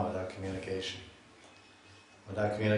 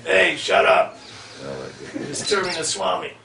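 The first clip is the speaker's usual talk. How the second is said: higher, louder shout out to the street; retold shout; 7 semitones higher, 7 dB louder than usual. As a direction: bark it out the door at the kids on the sidewalk. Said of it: "you hear the Brahmananda saying".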